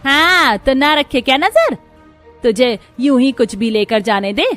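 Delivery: loud, high-pitched furious mother-in-law; angry scolding. Acted. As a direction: lash out at your daughter-in-law. Mother-in-law scolds, snatches the bottle. (बहू को ज़ोर से डाँटती गुस्सैल सास)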